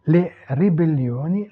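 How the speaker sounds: "les ribellioni" distinctly, with rolled r; Italian pronunciation demo. Shown as a demonstration. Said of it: "prononcer les mots". (prononcer « les ribellioni » distinctement à l'italienne)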